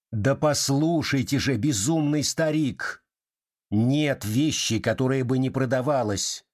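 insisting. Acted. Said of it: "настаивала дама".

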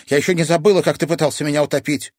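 put-on girl angrily reminding boy he tried to drown her; angry accusation. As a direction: throw it in his face.

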